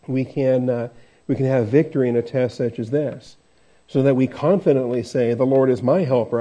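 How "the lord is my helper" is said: my slightly leaned on; stress on my. Shown as a demonstration. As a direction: lean a little on the word my. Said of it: "we put the emphasis on "my".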